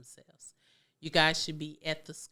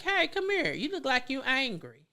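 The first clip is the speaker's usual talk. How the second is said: much higher and louder, coaxing; caring parent calling over; 9 semitones higher, 4 dB louder than usual. Shown as a demonstration. Parent noticing an angry child, high coaxing call. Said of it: "you can be like".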